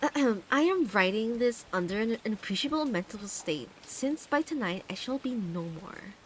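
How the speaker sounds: lightly put-on Valley Girl accent reading. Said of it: "start reading Dagon with a Valley Girl accent".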